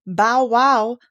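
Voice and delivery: loud, bark-like bow wow; mock bark. A narrator's reading. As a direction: yap it like a little dog. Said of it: "cried a daisy".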